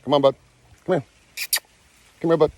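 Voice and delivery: coaxing call. Real, not acted. Calling monkey over.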